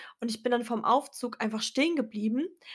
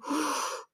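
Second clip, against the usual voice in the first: astonished gasp; 4 semitones higher, 4 dB quieter than usual. Retold or imitated. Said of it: "Und ich dachte mir nur so".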